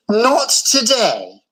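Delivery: a slow reluctant refusal; mild mutter. A narrator's reading. Doris turning Gordon down, slow and grumpy. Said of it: "muttered Doris".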